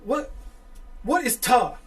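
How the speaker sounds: high, loud baffled question; puzzled Southern guy. Retold or imitated. Southern caller questioning his accent, mock bafflement. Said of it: "It's like from Southern guy".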